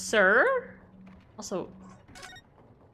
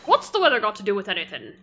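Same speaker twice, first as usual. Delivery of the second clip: quick, put-on English accent; brusque detective in an amateur English accent; 4 dB louder, faster than usual. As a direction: rattle it off in a rough English accent. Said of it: "I have to come up with an accent".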